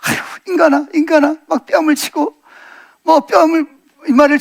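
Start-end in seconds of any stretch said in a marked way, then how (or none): 0.0-1.4 acted exasperated sigh at oneself; self-disgust. Preacher acts Peter hating himself, exasperated self-reproach. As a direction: scold yourself with mild, weary exasperation. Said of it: "자기가 싫은 거야".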